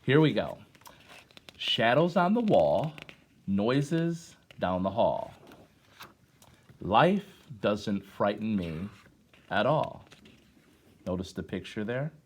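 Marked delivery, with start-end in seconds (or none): 1.6-10.1 put-on slow, measured poetry reading to children; poem recitation. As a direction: let each line land with a pause. Reads poem to class.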